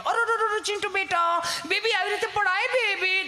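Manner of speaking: high, fussing mother's voice; mock-anxious mother fussing over her baby; fussing modern mother. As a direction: coo over the fallen child like a worried mum. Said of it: "mummy બિચારી આપણી પપડે".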